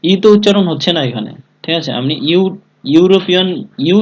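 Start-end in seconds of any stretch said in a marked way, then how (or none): 2.9-4.0 "ইউরোপিয়ান" begun with a clear "yu" sound, "ইউ" raised; "ইউ" pronounced "yu". Shown as a demonstration. Teacher showing students how European starts, "ইউ" said as "yu". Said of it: "উচ্চারণ করছি".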